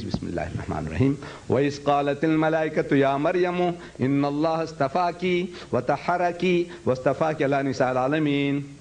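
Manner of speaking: quick chanted Arabic recitation; Quran recitation. Retold or imitated. Student reciting the verse for the class, in quick chanted Arabic. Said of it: "He reads".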